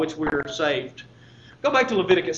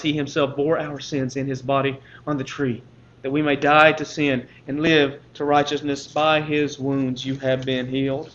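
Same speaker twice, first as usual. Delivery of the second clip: scripture reading; 3 semitones lower than usual. Acted. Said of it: "Peter writes".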